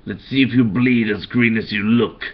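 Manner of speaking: lightly voiced Joker, gleeful menace; a hint of the Joker relishing the threat. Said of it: "another line that I created".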